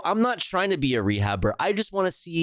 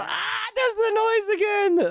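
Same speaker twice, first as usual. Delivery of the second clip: slow, high squeal of delight; drawn-out squeal at the sound. Real, not acted. Hearing the fawn's noise again, slow high squeal.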